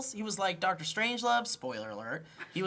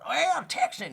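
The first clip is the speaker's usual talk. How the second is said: hammed-up Texan twang; mock Texan accent; 8 semitones higher, 5 dB louder than usual. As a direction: put on a bad Texan accent, pitched up. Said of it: "He can't talk like a Texan".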